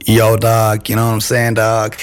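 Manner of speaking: lightly put-on American slang voice; American accent. Shown as a demonstration. UK guest tests his American accent for the hosts, American accent. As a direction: try out a casual American accent. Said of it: "can you do an American accent".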